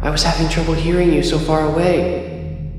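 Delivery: high, hollow, distant voice; echoey unseen playmate. A narrator's reading. Imagined kid luring Jasper down, echoey. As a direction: coax from the bottom of a tube.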